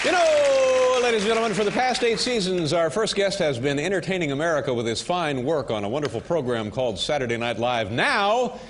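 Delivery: measured host announcement building to the name; talk show introduction. Acted. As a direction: introduce the guest to the audience. Host introduces his first guest.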